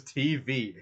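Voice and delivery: T V as two weighty separate letters; each letter of T V set down deliberately; like a statement. Retold or imitated. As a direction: imitate a friend declaring T V. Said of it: "You say it like a statement".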